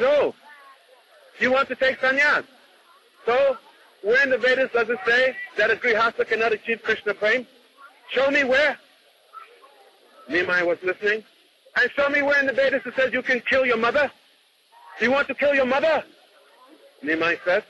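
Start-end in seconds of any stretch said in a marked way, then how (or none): 0.0-8.8 raised, pressing challenge to a friend; righteous challenge. Retold or imitated. Gadadhar challenging Nimai, raised and indignant. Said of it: "he takes a very strong leftist mood". 11.8-16.0 righteous challenge. Retold or imitated. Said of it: "he takes a very strong leftist mood".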